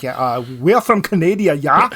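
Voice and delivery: lightly put-on Canadian accent with a questioning yeah; a hint of Canadian accent, posing as a local; mock Canadian accent. Fakes a Canadian accent to the Texan at the hostel, lightly mocking. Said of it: "'cause all of Canada talks like this".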